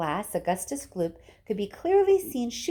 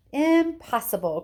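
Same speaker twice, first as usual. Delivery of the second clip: louder, slow cry; 5 semitones higher, 4 dB louder than usual. Acted. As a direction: cry it out firmly. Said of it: "cried Mister Wonka".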